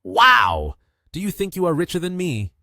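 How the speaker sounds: loud high outburst, then rapid challenge; angry. A narrator's reading. Customer challenging the delivery guy over money, angry. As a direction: burst out high and indignant. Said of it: "responded angrily".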